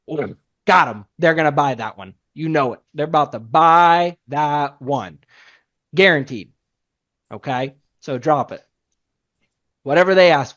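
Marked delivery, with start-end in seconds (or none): 0.1-6.5 excited. Retold or imitated. Rep's thought, sale is sure.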